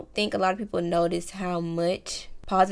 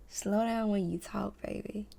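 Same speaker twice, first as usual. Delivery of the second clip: soft and slow; 8 dB quieter than usual. Shown as a demonstration. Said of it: "If you are a fast talker".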